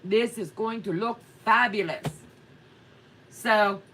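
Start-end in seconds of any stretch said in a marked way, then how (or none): 0.0-2.1 mock confident. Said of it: "And I'm like".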